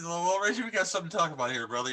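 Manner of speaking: Reggie impression. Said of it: "He just said".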